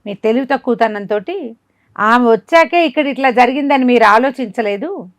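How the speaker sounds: rising outrage at the king's folly; indignant scolding. Real, not acted. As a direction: scold him for his stupidity, voice rising. Teller scolds the foolish king.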